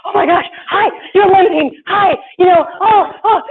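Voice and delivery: high excited squeals of hello; excited greeting. Retold or imitated. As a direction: gush at the crowd like a starstruck small-towner. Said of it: "We're like".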